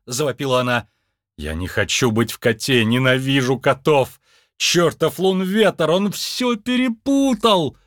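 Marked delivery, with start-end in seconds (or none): 1.4-7.8 complaint climbing to a high wail; lamenting. Acted. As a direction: wail your grievances, rising as you go. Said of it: "причитал Джо". (причитая, всё выше)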